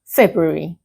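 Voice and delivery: February said as "Feb-u-ary", first R dropped; careful model February, R after the B left out; February without first R. Shown as a demonstration. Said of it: "do not pronounce the R after the B".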